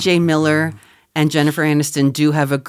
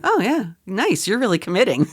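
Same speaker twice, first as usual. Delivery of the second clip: Jason Bateman; 4 semitones higher than usual. Retold or imitated. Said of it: "Jason Bateman goes".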